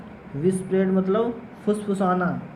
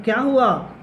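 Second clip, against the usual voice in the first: stern question; 3 semitones higher, 4 dB louder than usual. Retold or imitated.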